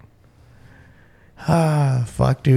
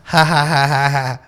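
pity laugh. Retold or imitated. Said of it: "pity laughs".

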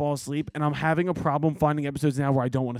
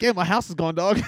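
laughing mock Nate; 4 dB louder than usual. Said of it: "Nate's like".

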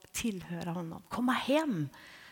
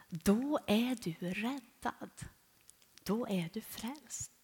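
solemn scripture quote; 3 dB quieter, slower than usual. Retold or imitated. Quoting Romans to Elsa.

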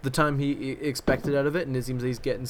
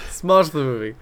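booming show title; loud announcer; 3 semitones higher, 8 dB louder, slower than usual. Pretend. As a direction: call out the title. Intro catchphrase repeated.

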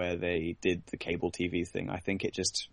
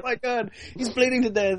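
much higher, fast hammed-up horror; mock panic; faster than usual. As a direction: gasp it out like the wounded guard's pal. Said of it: "this guy's like".

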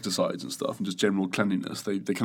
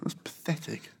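whispering; 5 semitones higher, 11 dB quieter than usual. Acted. Mock disappointment aside.

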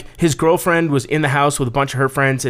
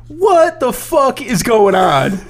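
slow, drawn-out, high-pitched mock outrage; imitated stern demand; 9 semitones higher, 3 dB louder, much slower than usual. Sergeant walking in on laughing inmates, slow high mock demand. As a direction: stretch it out as a baffled authority figure.

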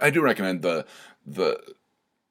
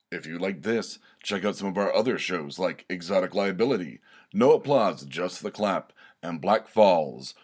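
measured outro announcement; promo read. Acted. Host pointing listeners to other network shows, promo read. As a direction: read out the show plugs evenly, as an announcer.

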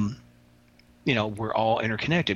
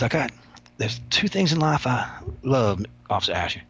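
Love Kills impression. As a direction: imitate the inmate confiding, taking his time. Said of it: "I speak like he speaks".

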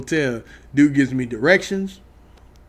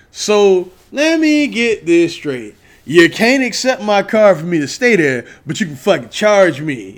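louder and higher, slow, building outrage; indignant rant; 4 semitones higher, 4 dB louder than usual. Real, not acted. Angry customer ranting at the hotel that charged him, indignant. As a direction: lay out the injustice, each word hitting harder.

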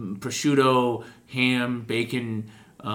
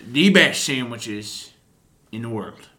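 slow proud pitch; 5 dB louder, slower than usual. Acted. Salesman pitching his sandwiches.

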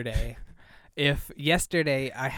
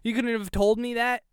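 exasperated; 6 semitones higher than usual. Retold or imitated. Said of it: "I'm like".

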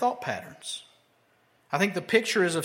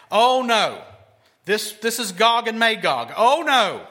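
loud, hammed-up panicky wailing; mock panic; 2 semitones higher, 5 dB louder than usual. Preacher mocking people who panic over the balloon, hammed-up loud panic. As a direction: ham up a panicked doom-sayer crying oh no. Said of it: "people who are panicking".

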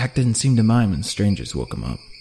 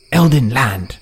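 louder, gruff declaration; stern guide voice; 2 semitones higher, 5 dB louder, slower than usual. A narrator's reading. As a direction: announce it like a warrior.

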